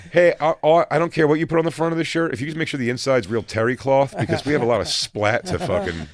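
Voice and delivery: loud, high, fast jock voice; hockey player quote. Retold or imitated. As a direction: play a crude hockey bro, loud and fast. Voicing hockey player's request.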